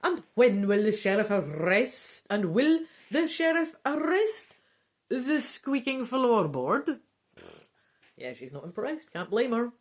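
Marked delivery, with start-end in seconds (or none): 0.0-7.0 rising, lightly higher protest; a mild mock shriek of disbelief; shrieking countess. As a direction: countess not impressed, rising. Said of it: "the Countess Orsini shrieking now".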